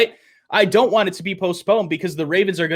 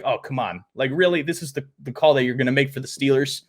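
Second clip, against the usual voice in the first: mock disbelief; 5 semitones lower, 4 dB quieter, faster than usual. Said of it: "that you're like".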